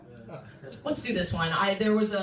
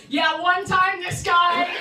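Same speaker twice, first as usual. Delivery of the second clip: louder, higher and slow, laughing through it; hammed-up support-group sharing; laughing mock storyteller; mock confessional comic; 8 semitones higher, 6 dB louder, slower than usual. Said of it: "comics in here being like".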